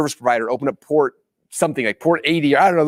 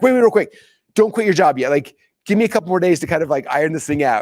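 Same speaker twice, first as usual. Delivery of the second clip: higher-pitched, urgent retold plea; hasty backtracking; 5 semitones higher than usual. Husband stopping his wife quitting her job, hastily backtracking. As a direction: backpedal quickly, pitched up.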